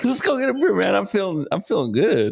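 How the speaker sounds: high-pitched mock enthusiasm; hammed-up instant-buddy excitement; playful acceptance. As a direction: play along eagerly, pitched well up. Plays along with imagined first meeting.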